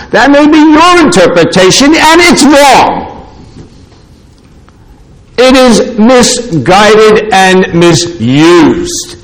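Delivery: high, ringing preacher's declaration; forceful pulpit rebuke; emphatic rebuttal. Real, not acted. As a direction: raise the pitch and drive the verdict home, stretching the end. Preacher forcefully rebutting a rival interpretation.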